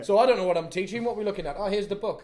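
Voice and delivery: clueless supply teacher making it up; flustered substitute teacher. Acted. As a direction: bluff through a lesson you never prepared. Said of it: "a supply teacher".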